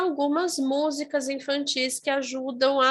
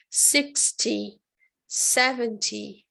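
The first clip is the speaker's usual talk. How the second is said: British T; much slower than usual. Shown as a demonstration. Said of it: "O inglês britânico marca mais o T".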